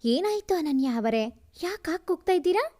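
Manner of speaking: rushing, rising worried question; a touch of alarm, speeding up; startled man asks what happened, quick and worried. Acted. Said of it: "Gautam ಗಾಬರಿಯಿಂದ".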